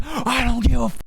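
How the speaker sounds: high, stretched-out mock holler; imitated top-of-lungs yell. Buddy yelling at a mom outside the store, imitated high yell. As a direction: repeat it as a high, drawn-out yell. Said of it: "yelling at the top of his lungs".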